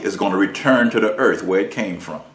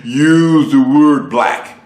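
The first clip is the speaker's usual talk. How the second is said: higher, louder, very slow scolding; mocking black folks; 4 semitones higher, 6 dB louder, much slower than usual. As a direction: lecture in a drawn-out preachy mock voice. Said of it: "black folks say".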